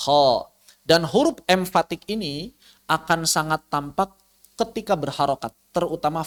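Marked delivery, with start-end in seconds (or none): 0.1-0.5 "ho" heavy, with raised tongue root; emphatic thick letter. Shown as a demonstration. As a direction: say "ho" from a pressed throat, dark and rounded. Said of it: "Seperti saat misalnya kita mengucapkan".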